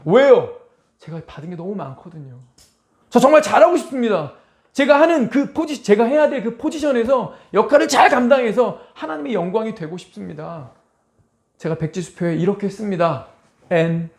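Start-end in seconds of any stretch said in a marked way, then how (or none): 3.1-10.7 high, loud earnest plea; fervent prayer. Pretend. Preacher voicing a believer's prayer, fervent and high. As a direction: pour out the wish to do well for God.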